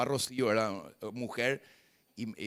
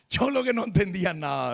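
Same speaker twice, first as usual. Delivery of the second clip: high, louder self-mocking laugh; laughing at himself; 6 semitones higher, 4 dB louder than usual. Real, not acted. Preacher laughing at his younger self before the congregation, high and louder. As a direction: laugh through the words at your own folly.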